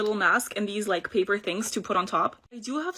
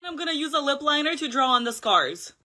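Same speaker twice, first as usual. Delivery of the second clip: ordinary delivery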